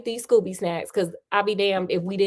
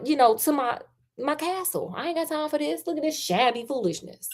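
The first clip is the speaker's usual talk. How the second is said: higher, put-on snooty voice, sniffing at the poor man; snooty lord; 4 semitones higher than usual. Rich lord brushing off Sherlock, higher snooty voice. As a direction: look down your nose at him. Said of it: "the Lord's like".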